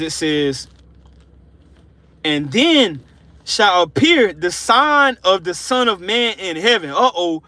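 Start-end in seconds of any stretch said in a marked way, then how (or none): 2.2-6.9 slow, weighty reading of scripture. Acted. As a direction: read the verse like a solemn proclamation. Reads scripture aloud.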